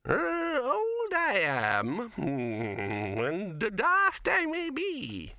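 put-on very high, slow, quavering old man; the stubborn old codger drawls; high slow old man's defiance.

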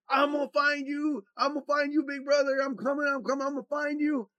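put-on a small boy charging down calling; little brother calling out. To big brother, kid barreling down the stairs, eager calling. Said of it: "he come barreling".

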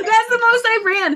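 laughing through the words; words bursting with laughter. Real, not acted. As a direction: say it while cracking up. Laughing at her own short run.

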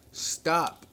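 high, loud, urgent call; shout. A narrator's reading. Inspector calling to a panicked hall, shouting. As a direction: shout to halt the crowd. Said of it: "he shouted".

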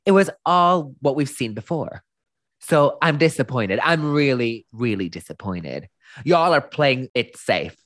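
lightly voiced stern judge; mock judge's rant; imitating RuPaul ranting. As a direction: scold them like a disappointed RuPaul. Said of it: "ma' RuPaul yn mynd off ar rant".

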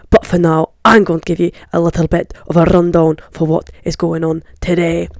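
put-on Scottish lilt, a bit loud; mock Scottish accent. Vlogger previewing Scotland versus South Africa, mock Scottish accent. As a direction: carry the bad Scottish accent on. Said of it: "This is my Scottish accent".

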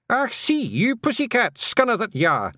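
high, feisty little man picking a fight; high-pitched combative cry; Feegle yell. A narrator's reading. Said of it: "he yelled".

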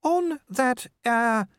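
high-pitched wife feeling her way into a topic; hesitant, high voice, stopping and starting; a little hesitant. A narrator's reading. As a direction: broach it haltingly, with pauses. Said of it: "a little more hesitantly".

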